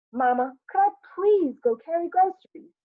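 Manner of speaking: put-on high-pitched child begging mother; pleading boy. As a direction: plead eagerly like a young son. Acted boy begging his mother.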